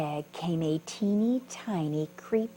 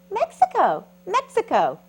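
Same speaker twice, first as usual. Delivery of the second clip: excited shout; 12 semitones higher, 9 dB louder than usual. Acted. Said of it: "bug answers excitedly".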